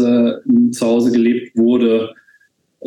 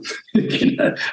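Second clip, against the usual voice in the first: short quiet chuckle; breathy little laugh at the end of a thought; soft laugh; 5 dB quieter than usual. Real, not acted. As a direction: let a small laugh slip out. Laughs after remark on parents.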